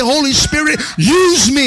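loud cry to the Holy Spirit; preacher crying out use me; fervent prayer. Acted. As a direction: call out for the Spirit.

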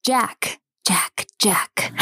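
breathy unvoiced whisper of a name; ghostly whisper. A narrator's reading. Swamp spirit whispering back to the lost narrator. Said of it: "a voice whispered back".

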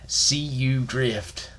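put-on slow drawled Alabama accent; Bama accent. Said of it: "our Bama accent extravaganza".

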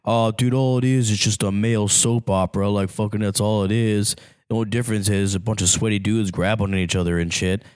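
mildly mocking dude voice; demeaning imitation. Wrestling fan imitates a detractor calling it soap opera, mildly demeaning. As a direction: lightly imitate someone belittling wrestling. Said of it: "in a very demeaning kind of way".

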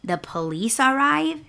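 halting, incredulous retort with pauses; retold fed-up sarcasm; annoyed. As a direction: spell it out in irritation, rising to a questioning end. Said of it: "I was just so annoyed at that point".

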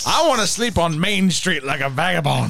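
giggling through the words; laughing. Real, not acted. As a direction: laugh while you say it. Laughing about sleeping on Main Street.

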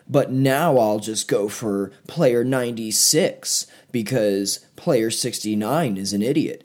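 slow, hammed-up stiff actor reading; mock a wooden overacting performer; overacted dub line. Mocking the English VIP actors' stiff, slow overacting. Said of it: "it almost felt like they were overacting".

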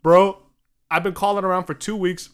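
loud, pushy explaining; hammed-up desperate caller; mock urgent plea. American caller begging Egyptian company for a snow machine, loud.

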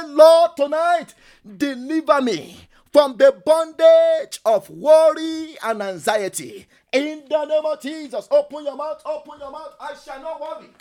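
a pastor leading a shouted prayer; fervent prayer. Acted. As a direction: call the room into prayer with force. Leads congregation in loud prayer.

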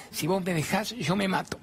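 high, mock-desperate plea; hammed-up threat from a clinging ex; desperate clinging man. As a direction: whine it like an abandoned little boy. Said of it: "se aferra para que yo no lo deje".

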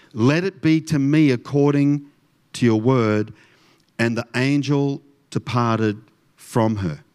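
measured scripture storytelling; solemn Bible reading with deliberate pauses; story voice. Shown as a demonstration. Pastor going on with the Christmas story for the congregation, in a story voice. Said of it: "We'll go on with the story".

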